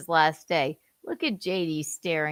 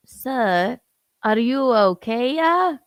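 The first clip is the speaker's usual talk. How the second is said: high, loud worried cardinal voice; voiced cardinal; 7 semitones higher, 8 dB louder, slower than usual. Son dubs a worried cardinal checking on JD. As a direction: play the alarmed cardinal, pitched up.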